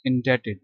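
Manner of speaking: इंडेटेड with the b left silent. Shown as a demonstration. Teacher showing students a silent letter, इंडेटेड with silent b. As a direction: say इंडेटेड with no b sound before the t. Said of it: "ये silent है".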